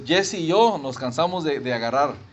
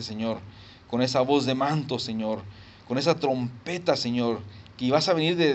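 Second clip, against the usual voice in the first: prayer; 2 semitones lower than usual. Real, not acted. Preacher leading the congregation in closing prayer, earnest falling phrases. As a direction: pray aloud, letting each address to God fall away.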